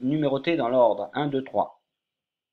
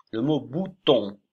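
seulement: lent et appuyé; 4 dB louder than usual. Shown as a demonstration. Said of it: "À vous de le reconstituer".

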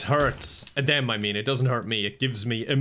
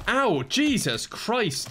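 pained yelp; 7 semitones higher, much slower than usual. Real, not acted. Hit by a thrown rock.

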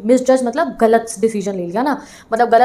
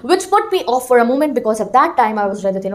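slow classroom reading; much slower than usual. Shown as a demonstration. Reading the textbook line aloud.

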